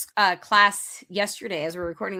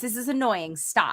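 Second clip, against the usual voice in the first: mom voice; 5 dB quieter than usual. Real, not acted. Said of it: "I'm putting on my mom voice".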